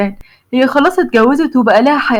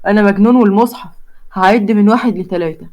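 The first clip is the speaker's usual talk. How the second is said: put-on lower, stubborn young man; Hazem's voice; 3 semitones lower than usual. A young man threatens her from the next balcony, lightly lower voice. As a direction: dig in like a lovesick hothead.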